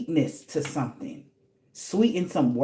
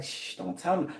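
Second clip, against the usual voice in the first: hushed whisper; 9 dB quieter than usual. Retold or imitated. Practitioner hushing, quoted.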